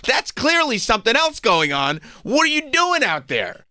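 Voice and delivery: high, rising mock outrage of a jealous fiancé. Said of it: "I'm like".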